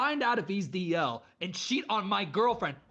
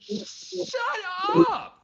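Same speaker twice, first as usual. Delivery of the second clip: mock yell; 12 semitones higher, 6 dB louder than usual. Yelling at the imagined speaker.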